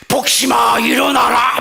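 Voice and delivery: loud, commanding shout; God shaking the deacon awake, mock thunderous; booming divine call. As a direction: bellow the wake-up call. God voiced calling deacon.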